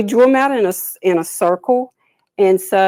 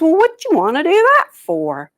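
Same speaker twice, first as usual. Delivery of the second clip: turtle voice; 8 semitones higher, 5 dB louder than usual. A narrator's reading. Turtle questions birds.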